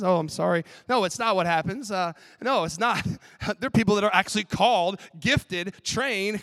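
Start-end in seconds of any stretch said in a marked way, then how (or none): 0.0-3.1 emphatic correction. Acted. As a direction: set the record straight, loudly. Correcting his own old idea.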